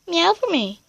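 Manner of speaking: high, coaxing voice for a cat; coaxing a pet. Real, not acted.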